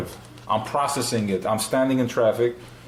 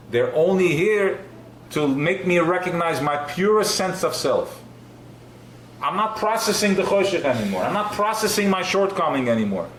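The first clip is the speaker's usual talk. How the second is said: pitched higher, fervent sermon voice; impassioned teacher carried away by the idea, higher; heightened preaching; 5 semitones higher than usual. Acted. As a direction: lift the voice and preach it with rising fervour.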